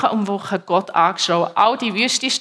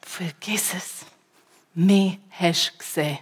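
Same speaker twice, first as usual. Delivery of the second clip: a yell to God retold as a hushed whisper; mock scream turned into a breathy hush, much softer; 2 semitones lower, 5 dB quieter than usual. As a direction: whisper the angry outburst instead of shouting it. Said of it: "habe ihn nochmal angeschrien".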